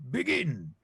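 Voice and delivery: booming announcement; announcing. Acted. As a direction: call it out like a ringmaster. Game master opens the scene.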